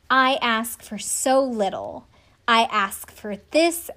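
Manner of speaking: slow, drawn-out, overly earnest; milk each word like a soap opera; mock dramatic plea. Contestant pleading with her fiancé, slow mock melodrama. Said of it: "that shit was dramatic".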